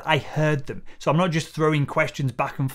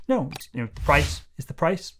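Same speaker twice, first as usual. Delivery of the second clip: calm and subtle. Shown as a demonstration. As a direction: state it gently, no debate. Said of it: "say it as subtly and as calmly as that".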